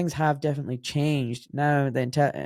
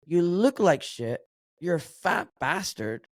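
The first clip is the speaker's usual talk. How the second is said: slow, blunt telling-off; blunt dad; 3 semitones higher than usual. Retold or imitated. Dad confronting his overweight son late at night, slow and blunt. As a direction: imitate a father laying it out bluntly, slowly. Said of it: "And he goes".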